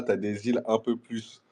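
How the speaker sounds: burp slipping out mid-sentence; talking while burping. Real, not acted. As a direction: talk through a small burp. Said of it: "j'ai roté".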